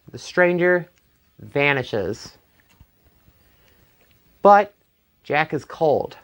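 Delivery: ordinary delivery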